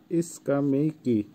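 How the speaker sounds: slow, syllable by syllable ইস্কামেইকি; careful pronunciation. Shown as a demonstration. Teacher repeating a Russian word for Bengali learners, carefully pronounced. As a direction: say ইস্কামেইকি slowly, each syllable set apart. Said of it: "আবারও বলছি".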